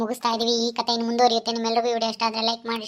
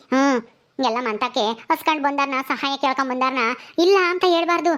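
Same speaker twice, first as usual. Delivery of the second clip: persuading Sakamma. Acted. Sakamma urges Gangi to be kind. (ಮನವೊಲಿಸುವ ಸಾಕಮ್ಮನ ದನಿ)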